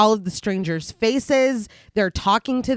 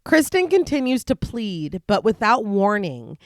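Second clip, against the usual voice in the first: measured storytelling read; story narration. A narrator's reading. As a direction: recap read like an audiobook.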